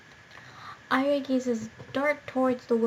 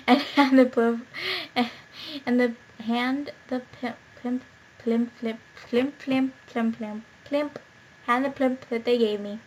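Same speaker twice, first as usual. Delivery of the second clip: giggling through tongue-twisting; laughing; 4 dB louder, slower than usual. Real, not acted. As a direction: laugh while stumbling. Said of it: "My pronunciation just, is just really horrible today".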